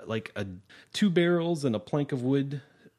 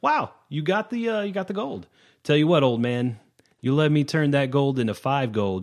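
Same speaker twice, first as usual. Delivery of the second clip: excited gnome; 4 semitones higher, 5 dB louder than usual. Acted. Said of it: "He's like".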